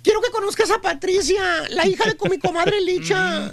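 lightly voiced coaxing mother; persuasive mother. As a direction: sweet-talk him into meeting the girl. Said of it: "le sale la mamá". (madre convenciendo con voz dulce apenas actuada)

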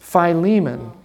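Philemon said fye-LEE-mun; correct pronunciation. Shown as a demonstration. Teacher correcting a student's pronunciation, Philemon as fye-LEE-mun. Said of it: "How do you say that?".

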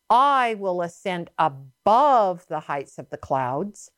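lightly voiced Satan, slow and emphatic; Satan's boast. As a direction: lean long on each self-exalting claim. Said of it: "This is how he, how he talked".

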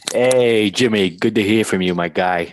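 choppy, muffled bad phone line; like calling from under water; underwater. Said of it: "You sound like you're underwater".

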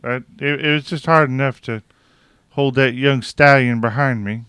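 nasal pinched-nose voice; pinching nose. Retold or imitated. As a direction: talk while holding your nose. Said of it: "hold your nose like this".

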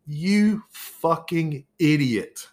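slow, drawn-out, disgusted insult; slow contemptuous insult. Real, not acted. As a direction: spell out the contempt, word by word. Ranting insult at Trump.

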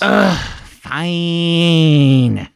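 grudging eye-roll sigh. Acted. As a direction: say it like an annoyed teen. Reluctant about reading.

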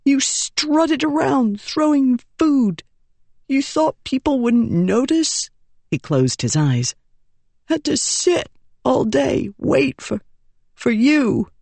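put-on a dying boy pouring out his blame; bitter hurt boy. Boy's accusations voiced.

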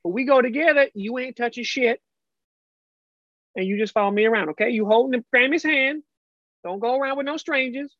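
lightly voiced Southern grandma; a hint of a firm grandma lecture; stern grandma. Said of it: "you're not my grandma".

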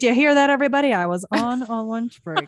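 loud 1920s hype man shout; gangster hype man. Pretend. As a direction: announce it like an old-time gangster. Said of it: "nineteen twenties, like, gangster hype man".

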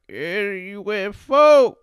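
high, hammed-up 1940s announcer; old-timey newsreel voice. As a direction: ham up an old newsreel man. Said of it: "how they used to talk back in them days".

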